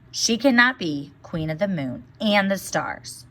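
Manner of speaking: put-on lively storybook reading for children; story read aloud. A narrator's reading. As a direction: read the tale to the class, voicing each character. Teacher reads fairy tale aloud.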